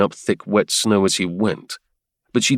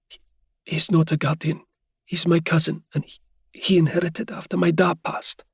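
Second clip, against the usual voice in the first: put-on Scottish accent; 8 semitones higher than usual. Helia, Scottish heroine.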